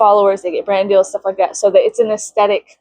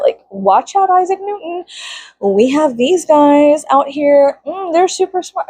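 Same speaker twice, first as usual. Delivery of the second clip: higher, slow mock admiration; mock praise; 4 semitones higher than usual. Mocking the boys' intelligence, slow sarcasm. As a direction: praise them with heavy irony.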